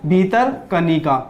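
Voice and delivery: slow, careful spelling out of भीतरकनिका; slow drill. Shown as a demonstration. Teacher drilling students on a park name, slow and careful. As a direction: say भीतरकनिका slowly, syllable by syllable. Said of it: "कौन सा?".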